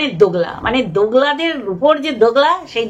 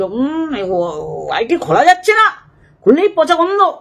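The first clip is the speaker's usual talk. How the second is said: mocking quote of the mother. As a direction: mimic her complaint with scorn. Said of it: "আর উনি বলে দিল".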